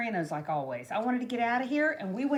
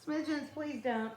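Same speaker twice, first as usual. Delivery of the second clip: laughing plea; 5 semitones higher, 4 dB quieter, slower than usual. Real, not acted. Pleading with the cat, laughing.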